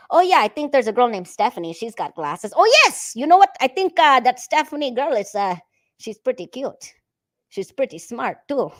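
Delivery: excited. Acted. Acting boy's keen phone reply.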